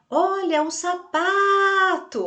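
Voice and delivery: high, loud call with "sapato" stretched on PA; pretend shout. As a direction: holler slowly, holding PA long. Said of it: "eu estiquei um pouquinho mais". (grito de faz de conta, esticando o PA)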